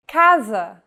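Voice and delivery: casa with a hard k sound at the start. Shown as a demonstration. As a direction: say casa as kah-zah, hard c. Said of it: "the letter C sounds like this".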